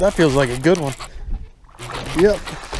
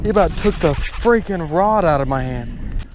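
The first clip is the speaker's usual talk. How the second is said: excited; 4 semitones higher, slower than usual. Real, not acted. Big fish strikes, amazed.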